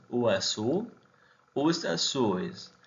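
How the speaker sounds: "azuis" con diptongo "uis" final, lento; "os azuis" dicho "us azuis"; pronunciación portuguesa. Shown as a demonstration. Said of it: "termina en ul". (plural portugués en "uis")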